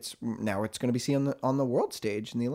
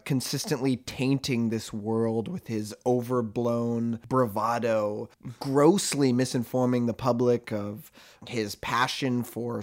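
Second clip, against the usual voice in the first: mock praise turned rant; slower than usual. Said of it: "I got carried away with myself there".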